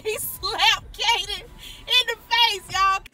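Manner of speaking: high, loud, slow words broken by laughter; can barely get it out for laughing; laughing while telling. Real, not acted. Cracking up while telling the viewers about the slap, laughing hard.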